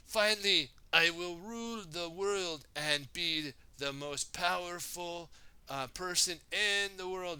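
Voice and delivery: loud, high boasting villain. Acted. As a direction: gloat about ruling the world. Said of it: "Samuku said".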